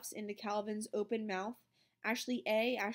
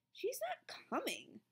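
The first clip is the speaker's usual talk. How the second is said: hushed relief; 6 dB quieter than usual. A narrator's reading. Relieved child.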